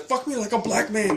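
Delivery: high-pitched mock woman's voice; put-on high voice in a retold scene; imitated wife. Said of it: "She's like".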